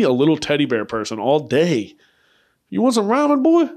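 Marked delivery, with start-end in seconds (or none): 2.7-3.7 high-pitched coaxing of a pretend pet; playful pet talk. Owner offering a pretend pet ramen, high playful voice. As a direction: pitch it way up, as if to a dog. Talking to imagined teddy bear pet.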